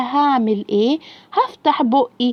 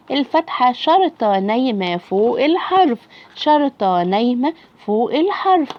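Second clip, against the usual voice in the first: slow drilling rule; slower than usual. Shown as a demonstration. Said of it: "teacher drills the rule slowly".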